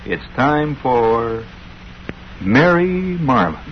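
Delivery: a hint of a dramatic soap announcer; radio announcer. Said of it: "The announcer would say".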